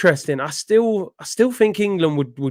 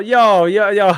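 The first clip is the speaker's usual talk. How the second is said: loud, high hype shout of yo; excited yo yo yo; hyped call; 4 semitones higher, 6 dB louder, slower than usual. Acted.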